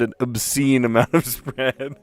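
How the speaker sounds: retelling the wrong word, amused; amused retelling of a verbal slip; the slip of the tongue. Retold or imitated. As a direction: say "obscene" as the slip, half laughing. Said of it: "I meant to say unnecessary".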